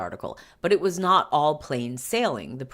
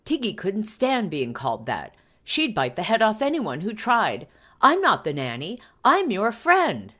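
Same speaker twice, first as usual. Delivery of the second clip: indignant nanny; 7 semitones higher, 4 dB louder than usual. Retold or imitated. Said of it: "he added".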